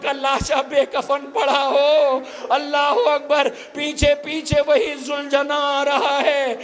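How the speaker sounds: preaching at full force. Acted. Preacher calling mourners to greet the procession, impassioned high lament. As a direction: cry it out to the mourners, drawn out.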